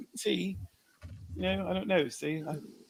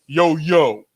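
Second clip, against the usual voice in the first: mocking imitation; 3 semitones lower, 9 dB louder than usual. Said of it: "what people do when they wanna think about black people".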